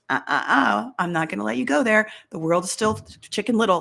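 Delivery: mock panicky Chicken Little voice, rising on the sky is falling; hammed-up alarm; fearful mind.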